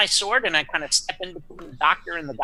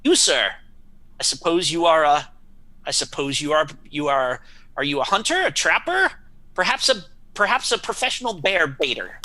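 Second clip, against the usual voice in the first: pompous knight voice. Acted. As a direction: play a proud old-world knight. Knight talking to farmer.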